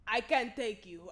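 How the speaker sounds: mock Spanish-accented English. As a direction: refuse as the Spanish-accented driver. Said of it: "This is all in a Spanish accent".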